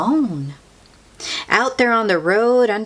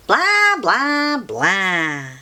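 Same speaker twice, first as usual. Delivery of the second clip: 1 dismissive; 2 semitones higher, much slower than usual. Acted. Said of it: "they replied".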